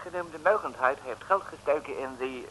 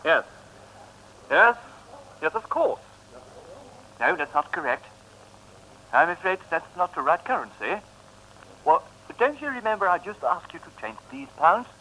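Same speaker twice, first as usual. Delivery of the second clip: English. Acted. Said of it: "Dat is een Engelsman".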